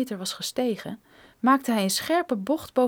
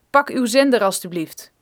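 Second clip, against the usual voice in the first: stern soldier; 7 dB louder than usual. Acted. Armed man gives orders.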